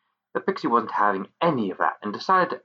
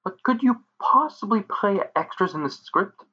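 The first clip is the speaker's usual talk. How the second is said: polite ask; 10 semitones higher than usual. Acted. Bo politely asking the extra.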